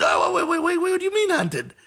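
high, disbelieving wait wait; incredulous. Retold or imitated. Replying to friends who say he's hunted, high incredulous.

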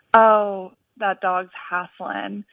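lightly Southern, slow and drawn out; imitated Southern accent. Caller quotes her college friend, light Southern accent. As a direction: quote it with a slight Southern drawl. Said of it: "in her Southern accent".

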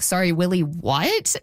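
incredulous double-take, rising on "what"; re-enacted stunned question; retold disbelief. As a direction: ask as if you misheard a bombshell. Re-enacts her disbelief at his revelation.

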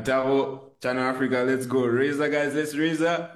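rising hype call to the live audience. Real, not acted. Guest rallying the Channel Africa audience, rising hype. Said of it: "you have to raise up with me".

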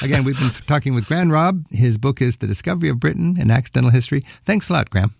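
brisk, bright show-ID read over music; radio host read. Acted. Host naming the guest and book to listeners, in a crisp announcer read.

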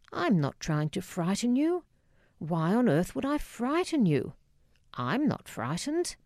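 mildly incredulous, pitch lifting on the questions. Acted. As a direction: protest as if the accusation were deranged. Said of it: "looked at me incredulously".

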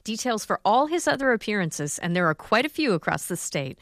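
measured, scripted public-radio host delivery; radio outro read. Acted. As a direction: read out the event details neatly.

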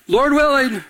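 playful pastor's retort. Retold or imitated. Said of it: "I say".

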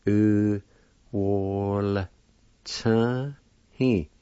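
"U" "Wol" "Chen He" with the L sounded after the W O; careful demo. Shown as a demonstration. Teacher sounding out the word philosophy carefully. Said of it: "like this".

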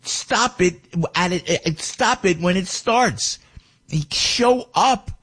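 high, slow, disbelieving muttering to himself; exasperated inner voice. Retold or imitated. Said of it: "I'm going to myself".

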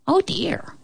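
high surprised oh dear; dismayed pig. A narrator's reading. Pig hearing about the thief, surprised. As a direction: gasp it out high.

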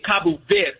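Cabo Verde said the Portuguese way; Portuguese Cabo Verde, swallowed final vowel; Portuguese pronunciation. Shown as a demonstration. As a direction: say Cabo Verde as "KAH-boo VEHRD". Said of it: "in Portuguese you would say".

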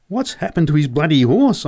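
high, alarmed call to a mate; boy yelling to Joe as a horse bolts past, alarmed. A narrator's reading. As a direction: shout it over the noise. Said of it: "I yelled at Joe".

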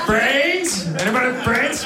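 loud, high zombie voice; hammed-up high-pitched zombie call. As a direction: beg for brains as the undead. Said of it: "Guy comes back from death".

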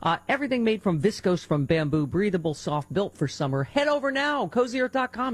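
enthusiastic personal endorsement read; live ad read. Acted. Radio host praising bamboo sheets to listeners, upbeat ad read. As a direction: sell it like a favorite product.

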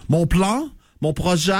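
lightly imitated Montreal actress diction; a hint of affected Montreal accent. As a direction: mimic how Montreal actresses pronounce their words. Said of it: "des fois, t'es entends parler".

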